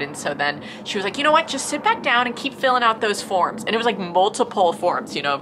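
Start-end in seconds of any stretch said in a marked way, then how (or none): 1.2-3.6 much higher and louder, curt brush-off; dismissive receptionist. Retold or imitated. Receptionist ordering patient to sit down, higher and louder. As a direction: wave her away, high and loud.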